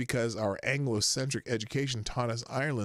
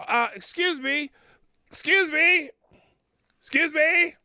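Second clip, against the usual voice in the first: much higher and louder, affronted "excuse me"; mock indignant; 10 semitones higher, 6 dB louder than usual. Streamer voicing Black Twitter's offended reply, hammed-up indignant.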